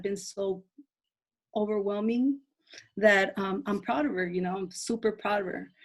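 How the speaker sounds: shaky emotional voice; voice cracking. Real, not acted. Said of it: "my voice is cracking a little".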